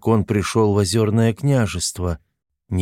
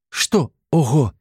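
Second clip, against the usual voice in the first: slow, suspicious higher query; suspicious question; 6 semitones higher, slower than usual. A narrator's reading. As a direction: probe him with suspicion. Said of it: "подозрительно спросила Агнеса". (подозрительно, медленно)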